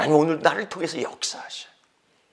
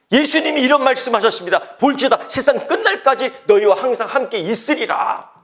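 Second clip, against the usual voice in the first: loud, higher, driving sermon voice; fiery preaching; 8 semitones higher, 8 dB louder than usual. Acted. Pastor exhorting the congregation, preaching loud. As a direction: rouse the church with urgent questions.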